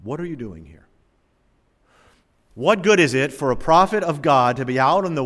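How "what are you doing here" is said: soft merciful question. Acted. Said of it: "a very, very merciful one".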